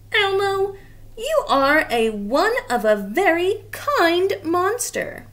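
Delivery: lightly voiced furry monster, grateful; a touch of a sniffly blue monster thanking a friend; Grover voice.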